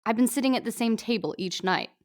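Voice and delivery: put-on a light Australian accent, playful. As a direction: Fat Amy, hammy Australian accent. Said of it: "my first crack at an Australian accent".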